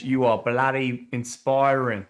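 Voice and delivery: put-on Aussie accent, drawn out; Australian accent. Host reading Carrie's comment aloud, in an Australian accent. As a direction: read it slowly in a mock Australian accent. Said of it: "putting an Australian accent on there".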